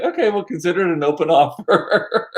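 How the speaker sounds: amused retelling, laughing at the end; breaking into laughter. Retold or imitated. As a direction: crack up as you deliver your own punchline. Cracks up at own retold joke.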